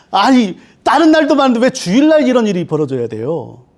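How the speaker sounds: mock outrage with a laugh in it; sulky believer protesting to God, half laughing; complaining to God. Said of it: "첫 번째 드는 생각".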